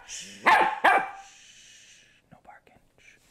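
breathy hushed whisper, drawn out slowly; slow whispered scold to a barking puppy. Real, not acted. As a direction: hush her without a sound.

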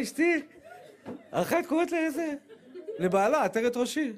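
high, laughing through the words. Real, not acted. Rabbi laughing as he tells his wife the story. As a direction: tell it while cracking up.

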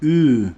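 Ü as a thin front vowel, rounded lips. Shown as a demonstration. Showing learners how thin letters are read, thin Ü. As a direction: hold Ü as a fronted "ue". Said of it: "İnce olanları".

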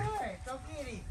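high, eager call to the dog; excited dog talk. Real, not acted. Egging the dog on.

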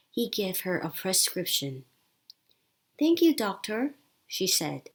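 slow, careful English read-aloud; story narration. A narrator's reading. Teacher reading Lisa's clinic story to learners, slow narration. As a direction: read each sentence slowly and clearly.

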